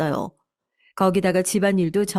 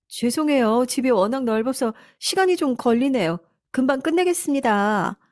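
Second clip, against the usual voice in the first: lightly voiced meek housekeeper, higher pitch; apologetic housekeeper; 6 semitones higher than usual. Scolded housekeeper to her employer, lightly acted high apology.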